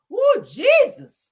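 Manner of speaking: high, slow, drawn-out cry of feeling; mock church-shout; hammed-up rapture. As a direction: wail it like the spirit hit you. Overcome by the poem.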